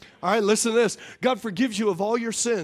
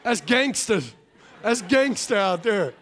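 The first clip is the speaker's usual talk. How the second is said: laughing. Real, not acted. Laughing joke about Four H.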